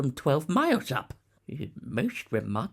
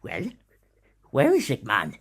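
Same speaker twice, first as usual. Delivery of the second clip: bursting with impatience, louder; can't wait to see it, push it out loud; excited demand; eager excitement; 6 dB louder than usual. Acted. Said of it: "could hardly control his excitement".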